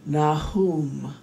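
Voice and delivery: hushed meditation guide; guided meditation. Acted. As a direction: guide them gently inward, unhurried.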